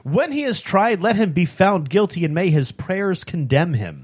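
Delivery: rising impassioned oratory; preacher voice. Acted. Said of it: "that is your preacher voice".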